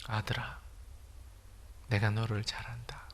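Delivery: hushed, breathy whisper of God's voice. Retold or imitated. Pastor voicing God's word to him in a whisper. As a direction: whisper it like a voice deep inside. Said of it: "하나님의 음성이 들렸습니다".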